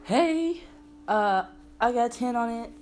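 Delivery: high, soft wheedling voice; imitated pleading stranger. Stranger at car window asking for a hit, high wheedle. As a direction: beg sheepishly in a high put-on voice. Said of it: "and he's just like".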